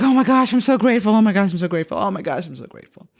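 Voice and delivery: breathless repeated thanks, starting high and tapering off; retold overflowing gratefulness; gushing gratitude. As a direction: tumble through the thanks, fading as it repeats.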